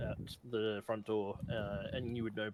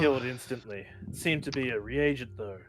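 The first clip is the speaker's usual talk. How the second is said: gruff officer; 7 dB louder than usual. Acted. Officer NPC continues.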